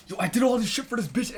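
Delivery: high-pitched imitation of an aggrieved man; mock crashing out. Imitating a man whose girl leaves, mock outrage.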